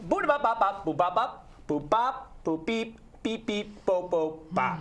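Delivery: high squeaky beeping babble; clown gibberish voice. Acted. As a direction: beep and boop like a toy.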